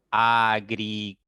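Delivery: "agricultor" in four separated, level syllables; split into syllables. Shown as a demonstration. Teacher counts four syllables, "agricultor" said piece by piece. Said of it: "Tiene cuatro sílabas".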